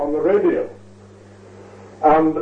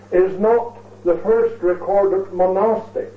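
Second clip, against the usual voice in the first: monastic leaned on with weight; stress on monastic. Shown as a demonstration. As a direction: give the word monastic a firm emphasis. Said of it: "and I emphasize the word monastic".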